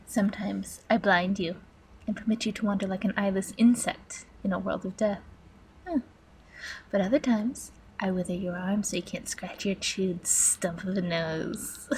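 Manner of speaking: quietly menacing villain; sadistic master computer. Acted. Computer villain describes torments to its captive, quiet menace. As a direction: recount the torments with restrained relish.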